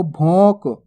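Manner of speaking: भौंक with the vowel sent through the nose; nasalized vowel. Shown as a demonstration. Teacher showing the correct reading, भौंक with nasal vowel. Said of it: "नाक से भी उच्चारण करना है".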